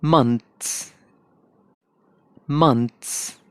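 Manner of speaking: मंथ्स in a British accent; British English months. Shown as a demonstration. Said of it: "British pronunciation होगी".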